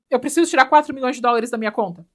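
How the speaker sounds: loud, hammed-up panicky customer; mock terrified. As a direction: imitate someone frantic at the bank counter. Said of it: "toda apavorada". (imitando alguém apavorado)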